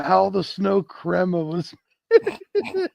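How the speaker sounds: slow, high showman title voice with a rising finish; name the dish like a showman; grand announcer title. Acted. Friends joking about the dish's name, in a high, slow showman voice.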